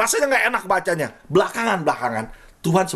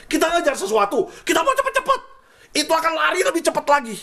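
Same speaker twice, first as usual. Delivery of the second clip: laughing; 10 semitones higher than usual. Real, not acted. Laughs at rushing ahead.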